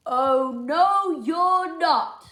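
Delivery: loud "no you're not"; bossy refusal. Acted. George refusing Sophie and Luther, loud. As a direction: block them flat.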